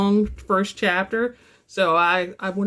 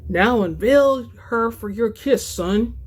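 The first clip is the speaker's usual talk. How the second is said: steady first-person novel reading; story narration. A narrator's reading. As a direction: read the chapter aloud like an audiobook. Author reads her novel excerpt.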